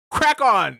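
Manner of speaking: excited shout. Pretend. Loving new British phrase.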